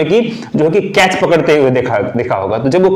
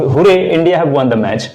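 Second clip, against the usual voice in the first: slow demo. Shown as a demonstration. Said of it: "audiences होते हैं वो मतलब बहुत ज़्यादा चीयर करते हैं".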